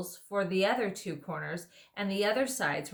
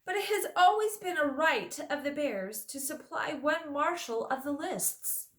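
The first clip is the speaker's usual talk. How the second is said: thick sleepy bear; 9 semitones higher than usual. Acted. Bear character voice.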